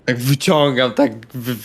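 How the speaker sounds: ordinary talk, nothing marked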